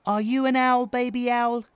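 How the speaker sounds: high, loud big-brother challenge; exasperated older brother owl; pointed questioning. A narrator's reading. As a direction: quiz the little one firmly. Brother quizzes Baby Owl.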